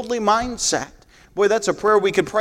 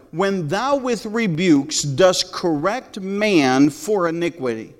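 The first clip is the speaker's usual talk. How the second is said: reread verse; slower than usual. Shown as a demonstration. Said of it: "Let's read it one more time".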